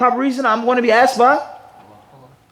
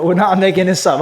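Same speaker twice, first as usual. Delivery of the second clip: laughing. Real, not acted.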